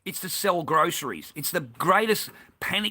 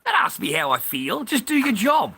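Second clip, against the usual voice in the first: indignant retort; 7 semitones higher than usual. Retold or imitated. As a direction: throw the question back at her, outraged. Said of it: "I looked at her and said".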